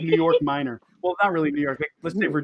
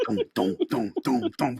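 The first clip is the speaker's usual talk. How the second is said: mock footsteps. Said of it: "coming down the stairs".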